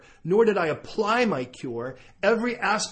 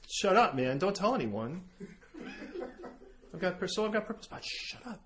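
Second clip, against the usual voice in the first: softer, hushing him to keep it secret; hushed plea; 9 dB quieter than usual. Retold or imitated. Micah begging him to keep the spots secret, hushed plea. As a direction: keep your voice down, don't let anyone hear.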